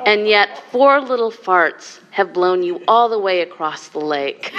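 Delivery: words broken up by laughter; grinning, delivering the punchline, laughing; laughing through punchline. Real, not acted. Teacher laughing as she lands the joke's punchline.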